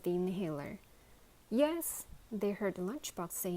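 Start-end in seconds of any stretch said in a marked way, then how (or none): 1.5-2.0 nervous shaky yes; quavering voice. A narrator's reading. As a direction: answer with a tremble in the voice. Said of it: "in a quavering voice".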